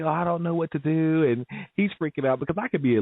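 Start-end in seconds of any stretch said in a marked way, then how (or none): 0.0-1.2 mock panic. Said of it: "He's like".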